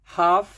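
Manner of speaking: हाफ said haaf, no l; हाफ, एल चुप; silent l. Shown as a demonstration. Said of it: "एल नहीं बोलना है".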